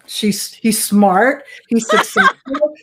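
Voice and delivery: slow, insistent "he's smart", breaking into a laugh on "he's successful"; exasperated repeat. Retold or imitated. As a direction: drag out "he's smart" as if it's obvious, then laugh. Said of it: "And I'm like".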